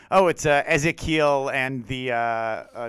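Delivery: mock morning-show announcer; goofy radio voice. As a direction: play a goofy Christian radio DJ introducing the show. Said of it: "like, a real goofy radio voice".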